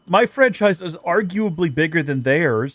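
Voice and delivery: slow, lightly whiny sulk; a touch of teen angst, drawn out; angsty whiny voice. Pretend. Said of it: "in an angsty, whiny voice".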